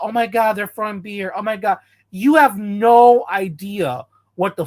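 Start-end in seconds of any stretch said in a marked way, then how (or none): 0.0-1.8 soft, mocking whine of a complainer; softly mocking complaint; mock whining. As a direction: mimic a fan moaning about beer thrown at them. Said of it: "that complain about".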